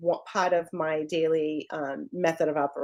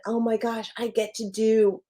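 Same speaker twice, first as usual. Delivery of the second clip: with conviction; 3 semitones higher than usual. Shown as a demonstration. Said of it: "say that with conviction".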